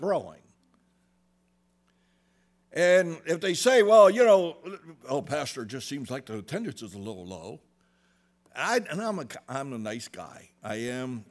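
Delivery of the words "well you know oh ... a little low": timid mimicked grumble to the pastor; mock timid complaint. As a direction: whine it gently and quickly, as a nervous member.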